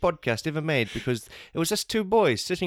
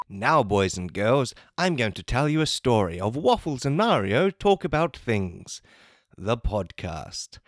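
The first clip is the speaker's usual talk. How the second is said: storytime voice; 3 semitones lower than usual. Acted. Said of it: "kindergarten style".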